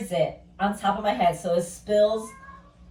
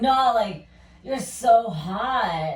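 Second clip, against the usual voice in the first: louder, slow, insistent mock pickup line; drawn-out sleazy come-on; 5 dB louder, much slower than usual. Club guy insisting to woman, slow louder drawl. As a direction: lean in and stretch out the so hot. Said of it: "And he's like".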